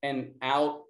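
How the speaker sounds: calm, measured breathing instructions; guided breathing. Acted. Teacher guiding the class through breath work, calm and measured. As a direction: count them gently through each breath.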